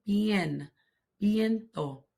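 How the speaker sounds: the V of "Viento" said as a soft B; soft B sound. Shown as a demonstration. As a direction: model "Bien", then "Viento" starting on a gentle B. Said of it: "The V has a soft B sound".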